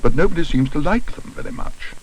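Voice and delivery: mildly wounded bear; injured. A narrator's reading. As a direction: say it as if wronged. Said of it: "put on his injured expression".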